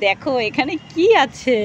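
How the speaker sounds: put-on slow, coaxing voice for a small child; talking to a toddler. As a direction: draw the child in slowly. Mother showing toddler a garden.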